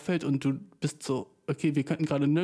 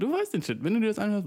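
excited; 7 semitones higher, faster than usual. Real, not acted. Excited repeat of catchphrase.

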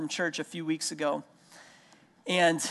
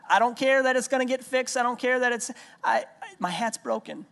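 imitating a stubborn toddler; 6 semitones higher than usual.

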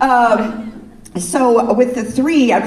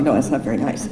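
mock scolding; 8 semitones lower, 3 dB quieter, faster than usual. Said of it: "She's telling me".

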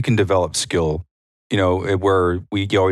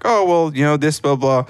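airy, much higher voice brushing off the explanation; tossing off the coaching pointers in a high breezy voice; 9 semitones higher than usual. Retold or imitated. Coach mimicking himself explaining to a stranger, high and breezy. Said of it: "And I was like".

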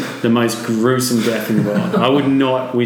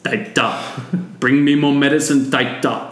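weird possessed voice; 4 semitones higher than usual. Retold or imitated. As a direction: call out to Taita as if something speaks through you. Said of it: "in this weird voice that I've just picked up".

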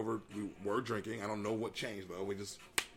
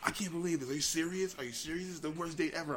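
imitated mad date; 5 semitones higher than usual. Angry date berating him over the bill, mock indignation. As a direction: mimic her indignant complaint in a higher pitch. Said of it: "she was just mad".

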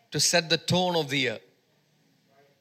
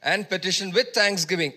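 emphatic preaching; 3 semitones higher, 3 dB louder than usual. Real, not acted. Preacher assuring the congregation of God's peace, emphatic and measured. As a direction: preach the verse with punched key words.

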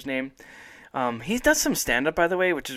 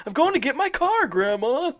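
put-on higher, louder teen shout back; bully yelling back; 12 semitones higher, 3 dB louder than usual. Bully shouting back to grandma leaving the house. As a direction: yell it over your shoulder like a surly teen. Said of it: "he leaves his grandma's house like".

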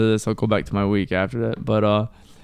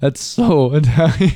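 laughing; 4 semitones higher, 5 dB louder than usual. Retold or imitated. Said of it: "I'm like".

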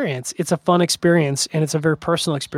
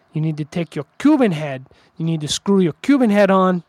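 Hamlet impression; 3 semitones higher than usual. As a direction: mimic your buddy Hamlet coaching you, loosely, not a full character voice. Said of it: "I'm gonna do my Hamlet impression".

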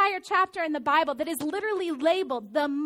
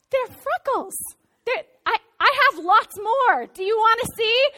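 excited laughing reply; 6 semitones higher, 7 dB louder than usual. Retold or imitated. Laughing reply to pedicure lady.

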